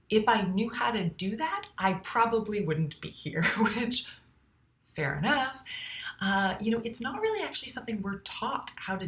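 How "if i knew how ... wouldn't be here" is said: mildly exasperated, pitch lifted; retold frustrated comeback; exasperated retort. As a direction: imitate a fed-up client's retort. Retelling exasperated client's retort.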